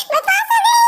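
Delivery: half laughing, half crying with joy; laughing through tears. Acted. Girl laughs and sobs that she passed.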